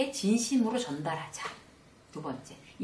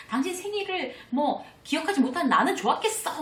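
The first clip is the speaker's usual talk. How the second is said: high, loud and bitter; husband retorting angrily to his wife; sarcastic angry retort; 9 semitones higher, 4 dB louder than usual. Retold or imitated. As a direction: throw the blame back at her. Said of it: "적반하장으로 막 이렇게 나온".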